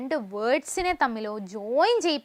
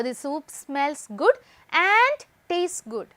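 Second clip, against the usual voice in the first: slow dictation; much slower than usual. Shown as a demonstration. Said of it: "അപ്പൊ".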